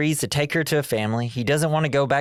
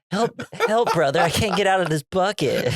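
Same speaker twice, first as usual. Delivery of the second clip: high damsel cry; 7 semitones higher than usual. Retold or imitated. Mock damsel cry from bucket.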